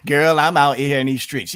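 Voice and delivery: mocking replay of the fake street-slang line; imitating Kamala Harris. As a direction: parrot her 'girl' line back with scorn. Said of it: "You're so phony".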